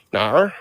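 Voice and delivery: "Nar" with a leaned-on R; "Nar", the Australian no ending in R. Shown as a demonstration. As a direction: practise an Aussie no as "Nar". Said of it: "I gotta say R more".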